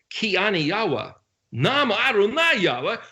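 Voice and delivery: imperial proclamation. Acted. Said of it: "my imperial voice".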